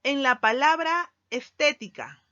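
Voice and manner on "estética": "estética" with TÉ punched, then "tica" set apart; stress on third-to-last syllable. Shown as a demonstration. Teacher demonstrating an esdrújula, stressing TÉ in "estética". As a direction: hit the TÉ in "estética" and let the last two syllables follow. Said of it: "el acento recae en posición tres".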